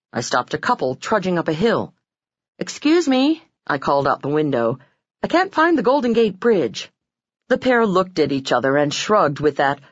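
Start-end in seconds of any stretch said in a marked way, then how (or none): 2.6-3.4 calling out. Retold or imitated. Calling out car window. 5.2-6.9 calling out. Retold or imitated. Calling to strangers.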